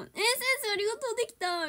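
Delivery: retold happy thanks. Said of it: "みたいな言って".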